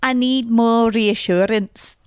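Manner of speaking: put-on voice mimicking her plea; contestant impression. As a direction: mimic her asking for reassurance. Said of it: "she's got a deeper voice".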